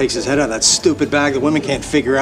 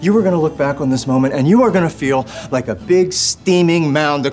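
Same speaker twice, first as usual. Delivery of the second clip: escalating rant; 4 semitones higher than usual. Acted. Scolding daughter's boyfriend, escalating.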